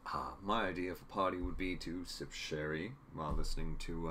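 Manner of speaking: lightly attempted upper-crust Boston accent; Charles. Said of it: "that's not Charles's Boston accent".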